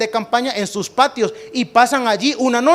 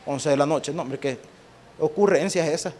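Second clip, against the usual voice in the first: protesta desganada; 5 semitones lower, 5 dB quieter than usual. Pretend. Israelita perezoso no quiere moverse.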